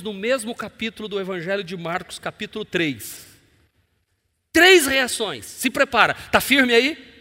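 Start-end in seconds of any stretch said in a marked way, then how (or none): 4.5-7.1 high, loud hype to the crowd; excited build-up. Real, not acted. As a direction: pump up the congregation. Pastor prepara a congregação. (empolgado e alto para a igreja)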